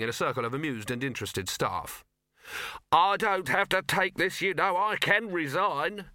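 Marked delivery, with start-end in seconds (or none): 2.9-6.1 high, loud indignant protest; indignant nephew. A narrator's reading. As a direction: huff up at your uncle. Sol and CMOT arguing.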